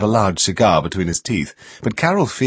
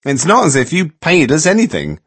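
whiny; 8 semitones higher, 5 dB louder than usual. A narrator's reading. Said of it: "Martha whined".

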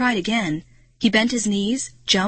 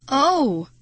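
high, startled oh; sudden raised-pitch exclamation; gasp; 6 semitones higher, 3 dB louder than usual. A narrator's reading. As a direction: gasp it in shock. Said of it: "I let out a gasp".

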